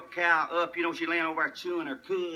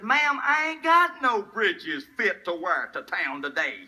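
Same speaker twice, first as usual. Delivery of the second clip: put-on country boy; slower than usual. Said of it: "his little brother".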